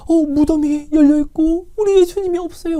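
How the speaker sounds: Mary's words lightly voiced in tears; retold crying. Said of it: "울면서 이야기를 합니다".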